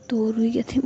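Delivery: ordinary delivery, nothing marked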